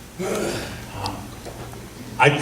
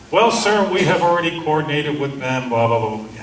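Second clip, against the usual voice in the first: imitating a bureaucrat; 3 semitones higher than usual. Officer brushing off the speaker's question, mild mock bureaucrat voice. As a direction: lightly mimic a stock staff-officer brush-off. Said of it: "the bureaucrat language suddenly starts".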